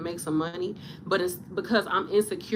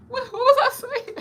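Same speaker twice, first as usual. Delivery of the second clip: much higher, mock-puzzled voice at herself; playful self-talk; 5 dB louder than usual. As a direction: talk to yourself like a ditzy other self. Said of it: "Self, what did we just say?".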